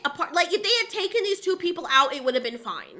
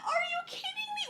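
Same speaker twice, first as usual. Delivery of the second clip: higher and quicker, almost a squeal; faster exasperated disbelief; 10 dB quieter, faster than usual. Real, not acted. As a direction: rush the second one out even more fed up. Outraged reaction to the show.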